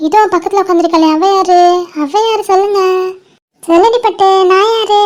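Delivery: doting, playful quizzing of a little one; baby talk. Acted. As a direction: prompt a baby to name who is there. Asking a baby to name people.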